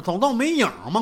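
usual speaking voice

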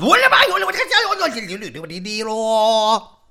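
hammed-up panic at a sudden scare; scared to death. A narrator's reading. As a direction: scream in fright, dissolving into babble. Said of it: "没把他吓死".

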